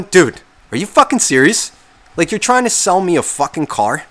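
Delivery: can't believe what he's seeing; incredulous outburst. Retold or imitated. Disbelief retelling car trunk.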